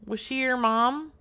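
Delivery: speaking up. Pretend. Caller repeating the question after a huh, speaking up. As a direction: say it up so he catches it.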